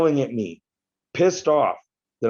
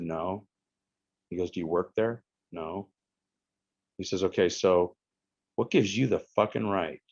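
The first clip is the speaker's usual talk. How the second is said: soft, lower lecturing voice, lightly done; lightly voiced scolding friend; 3 semitones lower, 3 dB quieter than usual. Israeli friend lecturing him, lightly voiced calm scolding. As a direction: calmly scold a rude friend.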